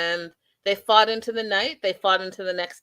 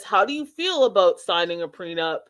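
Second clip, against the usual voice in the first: nervous fumbling; 4 semitones higher than usual. Retold or imitated. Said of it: "he gets all nervous, uh, loses his train of thought".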